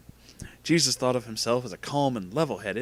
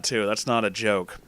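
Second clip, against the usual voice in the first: ordinary delivery, nothing marked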